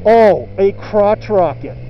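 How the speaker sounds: slow, drawn-out smirk. Retold or imitated. Four runner guy smirking at the Honda lover, slow smug tone. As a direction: savor the jab with a smirk. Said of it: "he smirkingly tells".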